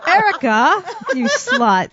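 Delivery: mock scolding.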